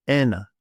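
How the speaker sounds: "ena" with a strong first syllable; stress on E. Shown as a demonstration. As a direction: punch the e in "ena". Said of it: "of the stress on the e".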